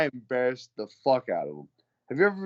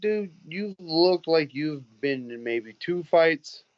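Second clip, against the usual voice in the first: slow, higher-pitched scornful retort; retold put-down; 5 semitones higher, slower than usual. Fighter telling off a loudmouth bar fan, scornful.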